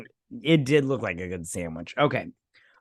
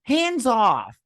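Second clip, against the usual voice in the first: raised, higher-pitched call to back off; retold warning; 10 semitones higher, 5 dB louder, much slower than usual. To the guy who pushed a friend, loud warning. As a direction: call it out firmly to stop a shove. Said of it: "all I said was".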